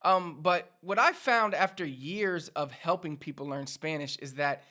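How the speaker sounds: usual speaking voice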